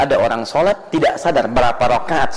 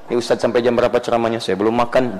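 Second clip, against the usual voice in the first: mock hungry listener; 5 semitones lower, faster than usual. Mock hungry congregant complaining.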